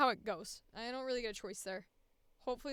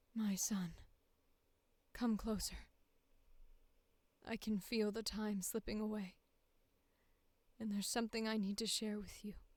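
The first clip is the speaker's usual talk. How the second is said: low, soft-spoken, weary mother voice, quieter; 5 dB quieter than usual. Reading audition sample dialogue as a widowed mother: low soft-spoken tired mother voice. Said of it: "I think I'm gonna go low".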